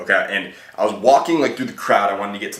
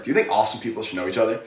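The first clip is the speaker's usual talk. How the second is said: playful smirk; faster than usual. Shown as a demonstration. Coach shows how to deliver the opener, with a playful smirk. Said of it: "A little playful smirk".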